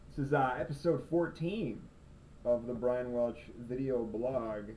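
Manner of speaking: slow, stretched title announcement; show title, drawn out. Shown as a demonstration. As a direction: savour the name of the blog slowly. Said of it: "I think that's getting catchy".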